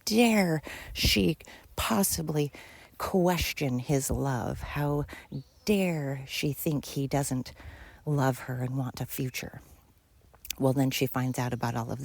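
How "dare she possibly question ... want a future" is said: slow, half-whispered mock outrage; husband turning blame on his wife, slow mocking indignation. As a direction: parody the husband playing the victim, slowly. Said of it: "turn it around on her and say".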